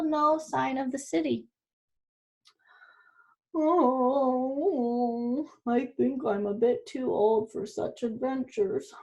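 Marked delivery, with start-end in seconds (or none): 3.5-8.9 lightly voiced weary old dog; moaning dog. Tired dog moans to his friends on the dark road, mildly. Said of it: "moaned the dog".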